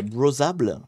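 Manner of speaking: English word in a self-mocking accent; French speaker showing off English pronunciation; showy English accent. Shown as a demonstration. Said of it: "Vous avez vu mon super accent".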